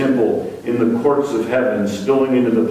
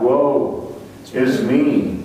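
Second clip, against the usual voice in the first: slow woe; much slower than usual. Retold or imitated. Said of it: "he cries out".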